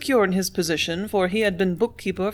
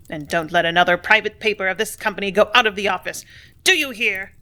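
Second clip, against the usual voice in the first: loud, menacing command; ugly tone; 3 dB louder than usual. Acted. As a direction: keep the nasty bullying order going. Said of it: "in his very ugliest tone".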